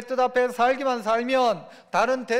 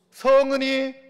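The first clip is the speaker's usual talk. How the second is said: courtier's grateful reply; 5 dB louder than usual. Acted. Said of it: "하는 거예요".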